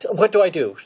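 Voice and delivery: high, loud mock panic; going crazy. Ahsoka watching the informant choke, in hammed-up panic. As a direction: stammer frantically in a put-on panic. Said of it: "going crazy".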